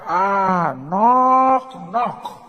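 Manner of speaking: lightly imitated Mandela, weighty; Mandela knock knock. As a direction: make a knock-knock joke sound epic. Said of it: "just be like".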